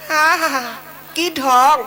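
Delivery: a sneering ha ha ha; mocking laugh. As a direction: laugh in his face as the wife.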